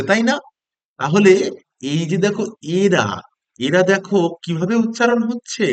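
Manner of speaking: lively classroom teacher, drawing out key words; acted primary-school lesson, paced for young pupils; teaching small children. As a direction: coax an imagined class with lilting questions.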